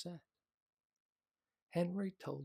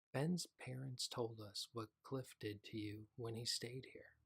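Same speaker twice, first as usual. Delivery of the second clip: careful. Acted. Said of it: "said Henry's dad carefully".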